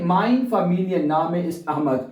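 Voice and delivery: slow German model sentence; slow demo. Shown as a demonstration. Teacher modelling surname sentence, slowly. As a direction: give the full sentence slowly to copy. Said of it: "familien नाम है".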